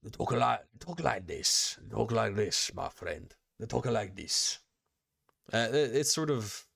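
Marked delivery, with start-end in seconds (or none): 0.0-4.6 demonstrating a light slurred twang; slightly slurred twang, words run together. Shown as a demonstration. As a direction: show how locals talk, with a lazy twang. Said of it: "I wanna say a twang".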